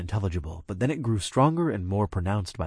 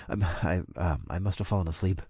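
gasping; 4 semitones lower, 7 dB quieter than usual. A narrator's reading. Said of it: "I gasped".

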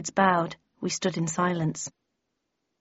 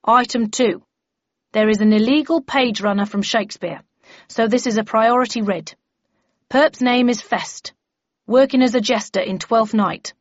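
firm, slightly raised official voice; bellman chairing briefing; 3 semitones higher, 5 dB louder than usual. Acted. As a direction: lay down procedure to the members.

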